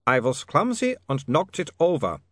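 put-on lightly accented, a touch sheepish; embarrassed. Otto admitting the broken jar, mildly embarrassed. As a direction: own up a little shamefaced, Ubervaltian accent. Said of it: "looking embarrassed".

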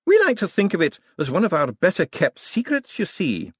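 put-on high, coaxing old academic; elderly wizard. A narrator's reading. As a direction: confide as an eccentric old professor. Elderly wizard confides a secret.

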